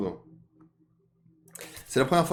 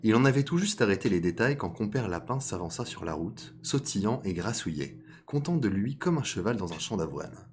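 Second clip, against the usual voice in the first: measured storytelling read; story narration. A narrator's reading. Storyteller introducing fox and rabbit to listeners, measured narration. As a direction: narrate a fable at an unhurried, even pitch. Reads a fable aloud.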